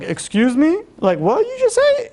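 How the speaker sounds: high, incredulous mock outrage from the doctor; indignant doctor. Doctor shocked that the rabbi contradicts her, incredulous high voice. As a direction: play the offended doctor, pitch shooting up in disbelief.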